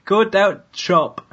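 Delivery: slow mock York accent; amateur York accent impression, slowed down. Shown as a demonstration. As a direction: draw it out in a put-on York accent. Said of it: "an attraction in York that I could".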